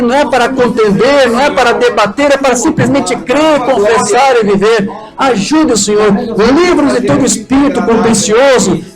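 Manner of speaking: supplicating pastor's prayer in steady, rolling phrases; earnest prayer. Real, not acted. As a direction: plead with God for the congregation. Leads closing prayer. (oração de súplica)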